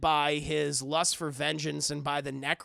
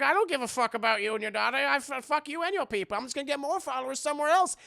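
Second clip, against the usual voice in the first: contemptuous villain; 9 semitones higher, faster than usual. Retold or imitated. Villain spits contempt at god.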